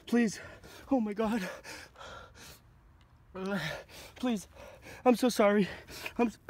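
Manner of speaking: terrified pleading. Real, not acted. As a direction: plead desperately for mercy. Begging the spirit louder.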